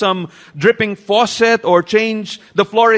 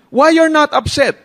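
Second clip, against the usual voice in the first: pressing wife; 7 semitones higher, 4 dB louder than usual. Retold or imitated.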